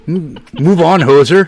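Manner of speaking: jokey Canadian brush-off; Canadian accent. Pretend. Teasing his friend as Uncle Canadian Dave, mock Canadian accent. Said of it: "Uncle Canadian Dave now".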